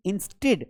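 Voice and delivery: "instead" as in-STID; i vowel in the end of "instead"; wrong pronunciation demo. Shown as a demonstration. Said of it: "instead नहीं पढ़ना है". ("instead" में "इ" की आवाज़)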